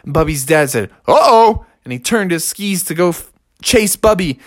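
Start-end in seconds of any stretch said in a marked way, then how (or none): 1.1-1.7 higher, louder worried exclamation; alarmed uh-oh. Acted. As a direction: blurt it as trouble starts. Father sees cub speeding away.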